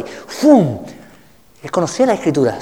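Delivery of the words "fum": loud, forceful "fum" sound effect; imitated whoosh. Preacher showing the force of God speaking, loud imitated whoosh. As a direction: punch out a sudden whoosh.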